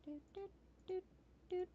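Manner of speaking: soft, high little doots; idle doot noises. Real, not acted. Player clicking around the desk, soft high doots.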